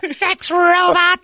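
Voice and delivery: emotionless robot. Acted.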